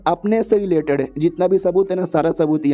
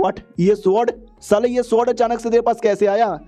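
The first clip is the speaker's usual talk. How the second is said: higher-pitched, mildly shocked villains; startled disbelief; 6 semitones higher than usual. Acted. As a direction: voice a startled, indignant question. Villains startled by sudden sword. (हल्की हैरानी भरी ऊँची आवाज़)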